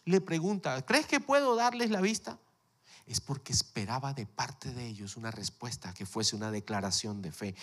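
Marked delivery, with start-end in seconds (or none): 0.9-2.4 Jesus asking. Acted.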